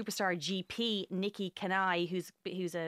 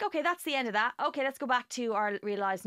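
relieved listener; 4 semitones higher, 3 dB louder than usual. Retold or imitated. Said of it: "and you're like".

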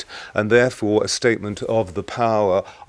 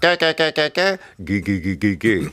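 vocal exercise. Shown as a demonstration. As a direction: run a quick warm-up drill on ga, gi. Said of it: "It's really simple".

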